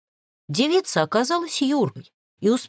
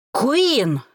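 louder, higher angry growl with a falling end; growled name; 6 semitones higher, 3 dB louder than usual. Acted. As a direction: growl her name, barely holding back. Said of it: "зарычал Грэди". (рычит имя, с падающим концом)

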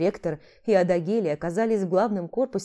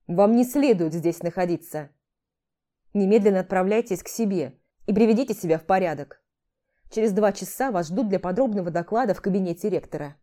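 calmer. Acted. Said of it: "уже более спокойно добавил".

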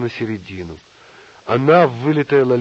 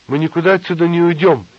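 high, loud indignant squeal; narrated squeal; 6 semitones higher, 7 dB louder than usual. A narrator's reading. Nina refusing to leave the room, squealing. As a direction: read it as a protesting squeal. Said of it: "взвизгнула Нина".

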